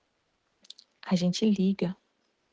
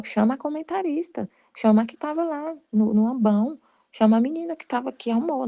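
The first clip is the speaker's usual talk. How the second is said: higher-pitched mock protest; 4 semitones higher than usual. Imagined reply to the priest blaming the commentator, protesting. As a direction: pass the blame on, pitched up.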